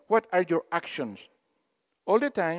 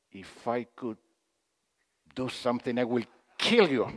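mock soft speaking; 7 semitones lower, 5 dB quieter than usual. Imitating side groups who thought they spoke softly, hushed. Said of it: "They were going like".

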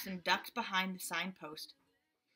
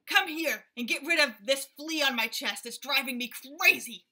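loud, higher, irritated gorilla calling monkeys; raging gorilla; 4 semitones higher, 7 dB louder than usual. A narrator's reading. Gorilla yelling for his monkeys to catch a flea, loud. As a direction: bellow for help, itchy and fed up. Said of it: "he raged".

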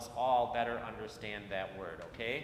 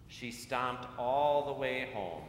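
put-on reading to children. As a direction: read it like storytime on the church steps. Reads picture book to children.

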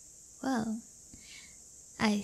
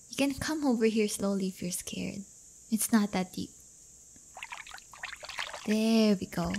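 whispered gentle coaxing; soft whisper; 2 semitones lower, 3 dB quieter than usual. Real, not acted. Guiding her nervous date into the lake, soft whisper. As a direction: whisper him into the water.

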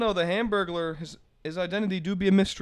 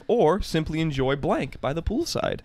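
infomercial; slower than usual. Pretend. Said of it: "I'm gonna read this like an infomercial".

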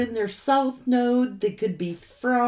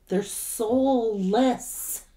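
drawn-out ominous; much slower than usual. Acted. Stressing the dark reading.

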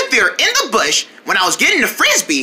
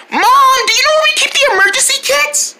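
high-pitched holler to a parent; calling out to Mom; 9 semitones higher, faster than usual. Acted. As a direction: call out high to someone out of sight. Calling to mother elsewhere.

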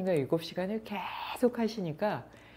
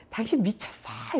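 higher, drawn-out mock yell; retold angry yell; 6 semitones higher than usual. Woken bartender to the repeat caller, mild mock yell. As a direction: imitate an exasperated outburst without full volume. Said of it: "막 소리를 질렀나 봐요".

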